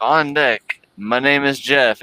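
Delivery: lightly imitated race announcer; mock announcer call, a touch of Channing Tatum. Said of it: "clicked the announcer button, and it was like".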